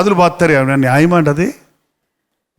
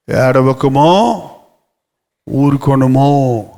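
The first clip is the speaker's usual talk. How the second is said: slow gentle hush; 5 semitones lower, much slower than usual. Acted. Repeats verse slowly, softly.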